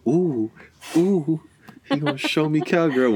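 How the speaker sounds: high-pitched cooing excitement; hammed-up giddy oohing; mock eager woman. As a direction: imitate a thrilled partner, voice way up. Imagines partner's eager reaction.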